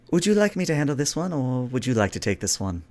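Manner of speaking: lightly voiced princess offering help; brisk, discreet question to the Commodore. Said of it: "look to the Commodore and say".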